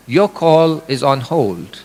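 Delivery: deliberate mock phone-system voice; automated phone voice. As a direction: read it like a dry recorded hold line. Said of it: "you will hear the automated voice".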